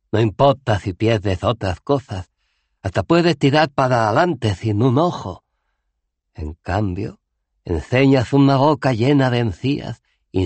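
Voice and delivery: Cohen, más agudo y fuerte, algo lento; el viejo héroe se lamenta; viejo Cohen resignado. Acted. (lamento del viejo guerrero, más agudo)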